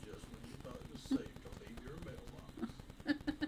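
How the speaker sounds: dramatic trailer narrator, playful; movie trailer voice. Pretend. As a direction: hype it like a film trailer. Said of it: "like the trailer guy voice".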